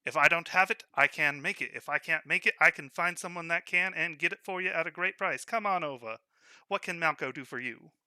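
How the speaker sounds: loud salesman's pitch, selling hard; shopkeeper pitch. Acted. Shopkeeper calls out to the street, loud sales pitch. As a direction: hawk your goods to the passers-by. Shopkeeper hawking his wares.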